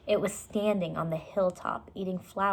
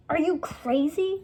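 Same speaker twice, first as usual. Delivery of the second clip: alarmed; 9 semitones higher, 4 dB louder than usual. A narrator's reading. Jack alarmed at her idea.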